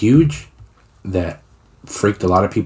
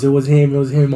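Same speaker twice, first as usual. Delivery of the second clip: high, louder imitation of an alarmed mother; mom panicking; 6 semitones higher, 3 dB louder than usual. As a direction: act out her worked-up realization. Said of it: "My mom fucking panicked".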